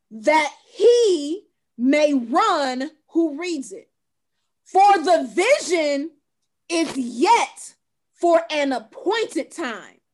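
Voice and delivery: slow, weighty Bible reading; scripture reading. Acted. Host reading the rest of the verse, slow and solemn. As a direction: let each phrase land slowly.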